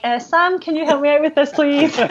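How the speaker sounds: high, sweet begging voice with a laugh; syrupy little plea to a friend; mock pleading request. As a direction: ask like a sheepish kid wanting help. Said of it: "I'm like".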